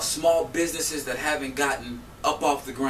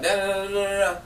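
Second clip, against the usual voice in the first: higher, rattled-off "da da da"; mock yelling babble; 5 semitones higher than usual. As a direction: imitate her going on and on in nonsense syllables. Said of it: "'cause we yelling back and forth".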